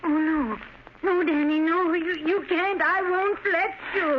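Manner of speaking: high, pleading cries of a frightened mother; desperate pleading. Acted. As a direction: beg him not to go, voice climbing. Mother holding son back, begging.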